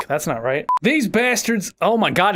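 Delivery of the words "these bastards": accidentally overdone Southern drawl in a bad impression; Southern accent. Shown as a demonstration. Voice actor retrying Buck's line, even more Southern accent. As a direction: lean lightly into a Southern accent. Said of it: "it's even more Southern".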